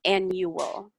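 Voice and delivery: Annual, stress on the first syllable; ANN-yoo-ul; model pronunciation. Shown as a demonstration. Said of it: "can you pronounce".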